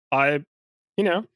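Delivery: nervous creaky high voice. Acted. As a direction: squeak it out nervously. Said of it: "saying such a creaky voice".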